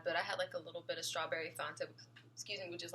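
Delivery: talking through hiccups; suppressing hiccups. Real, not acted. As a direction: hiccup breaks the words. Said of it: "gave me hiccups".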